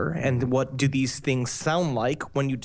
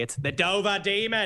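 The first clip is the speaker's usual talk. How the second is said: Dover Demon in a Boston accent; "Dover" with a dropped r, "Dovah"; 3 semitones higher than usual. Shown as a demonstration. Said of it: "it's gotta be pronounced correctly".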